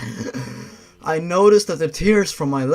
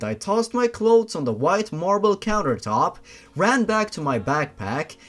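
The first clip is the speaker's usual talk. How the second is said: higher, louder, gushing with delight; delighted excitement; 7 semitones higher, 4 dB louder than usual. A narrator's reading. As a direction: rattle it off like a thrilled girl finding treasures. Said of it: "With a squeal of delight".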